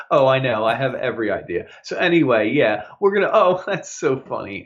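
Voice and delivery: lightly faked phone politeness, with a laugh; mock formal phone manner. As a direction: imitate a coworker being agreeable to a caller. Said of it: "like, formal and crap".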